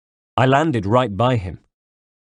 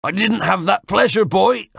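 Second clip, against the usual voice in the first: much higher, louder mocking villain voice; villain calling back; 11 semitones higher, 4 dB louder than usual. Knife man mocks the narrator while fleeing. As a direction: taunt him over your shoulder. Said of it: "he called back over his shoulder".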